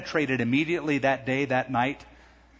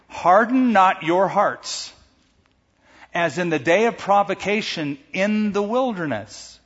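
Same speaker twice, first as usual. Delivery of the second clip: forceful scripture quote; 5 semitones higher, 3 dB louder than usual. Acted.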